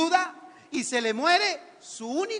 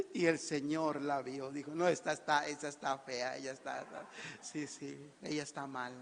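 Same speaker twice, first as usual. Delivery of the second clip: hushed voice of God; 10 semitones lower, 11 dB quieter than usual. Acted. God's quiet observation.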